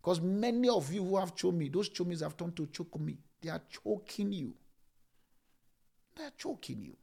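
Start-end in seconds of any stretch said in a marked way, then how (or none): 3.4-7.0 fading to a whisper. Acted. Preacher repeats, voice dropping to whisper.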